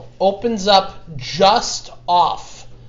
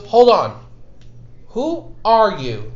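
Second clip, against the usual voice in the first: guard challenge; 3 semitones higher, slower than usual. Acted. Guard challenges stranger at gate.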